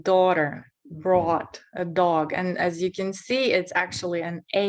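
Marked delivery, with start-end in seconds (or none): 0.8-2.3 "brought a dog" slow with the aw drawn out; teacher slows "brought a dog" for students; slow stressed. Shown as a demonstration.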